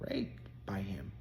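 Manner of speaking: hushed confession. Retold or imitated. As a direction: whisper it, barely voiced. Client confides painful truth.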